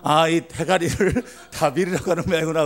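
retold barber, amused and livelier. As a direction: play the barber vividly through a laugh. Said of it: "이때는 이제 더 생생하게".

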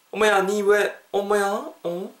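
acted surprise, pitched high; mildly surprised friend. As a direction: play a friend taken aback. Acts out surprised friend in example.

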